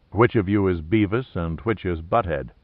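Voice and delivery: soft, low, mock-polite purr; sweetly polite with a sly edge; purring politely. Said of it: "Pitt purred politely".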